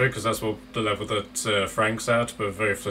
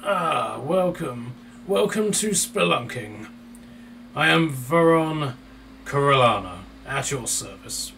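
hoarse shopkeeper voice; 4 semitones higher, slower than usual. Acted. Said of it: "A somewhat hoarse voice".

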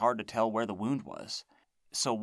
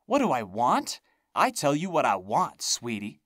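taunting crone; 5 semitones higher, 6 dB louder than usual. A narrator's reading. Monster hag taunting narrator.

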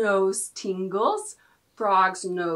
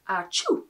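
sneeze sound; 3 semitones lower than usual. Shown as a demonstration. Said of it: "That's the sound we make when we sneeze".

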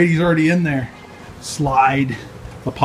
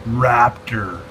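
slow, lightly voiced dinosaur; Mister Raptor; 2 semitones lower, slower than usual. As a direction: drawl it out like a playful dinosaur. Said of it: "My name's Mister Raptor".

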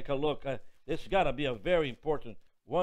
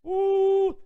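high joyful ooh; ecstatic whoop; 8 dB louder than usual. Real, not acted. Preacher whooping over the verse, high and joyful. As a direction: cry out with sudden joy. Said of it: "preacher's ecstatic exclamation".

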